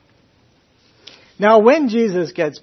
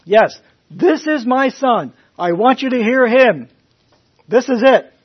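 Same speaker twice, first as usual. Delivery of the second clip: voice from heaven; 7 semitones higher, 8 dB louder than usual. Retold or imitated. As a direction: declare it grandly from on high. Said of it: "and heaven said".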